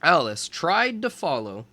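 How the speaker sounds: put-on lively storybook narration for young kids; reading to children. A narrator's reading. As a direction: read it like a teacher at story time. Reads picture book to children.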